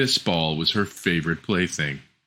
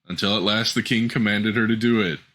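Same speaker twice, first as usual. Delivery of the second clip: ordinary delivery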